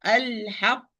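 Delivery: "الحق" with the ق held closed, then released into u; closed-then-released qaf. Shown as a demonstration. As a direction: hold the doubled ق of "الحق", then open it to u. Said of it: "I close the articulation point and start".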